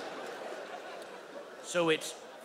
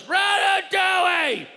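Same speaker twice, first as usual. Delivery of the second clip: much higher, louder, slow drawn-out yell; shouted movie title; 12 semitones higher, 5 dB louder, slower than usual. Retold or imitated. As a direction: scream the movie name from the crowd. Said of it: "someone goes".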